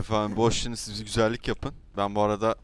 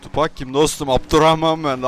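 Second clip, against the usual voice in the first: louder, higher, stressing Abdurrahman; insistent correction; 5 semitones higher, 9 dB louder than usual. Acted. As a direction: set him straight on the name. (ismini düzeltirken yüksek sesle ısrar)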